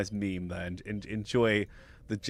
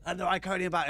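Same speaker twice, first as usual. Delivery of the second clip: mock mounting excitement; 5 semitones higher than usual. Host acting out a meme reaction, increasingly excited. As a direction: pitch climbing as amazement builds. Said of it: "he's really excited".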